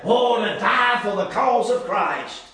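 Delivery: slow, savoring each word; drawn-out, reverent musing; slow reverent phrase. Shown as a demonstration. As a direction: let it linger like a treasured ideal.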